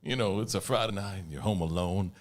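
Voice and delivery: infomercial. Pretend. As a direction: sell it like a late-night TV ad. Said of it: "let's do an infomercial for Spaghetti World".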